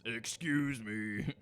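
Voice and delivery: polite excuse me. Acted.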